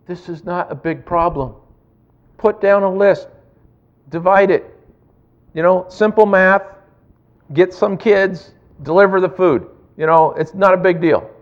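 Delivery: a lightly voiced scolding inner voice; nagging inner critic. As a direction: needle yourself like a know-it-all critic.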